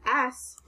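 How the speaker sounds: "s" as a bare hiss, not the letter name; isolated s sound. Shown as a demonstration. Teacher shows the sound ending rinse, isolated "s". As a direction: hiss "s" alone with no vowel. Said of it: "is making the s".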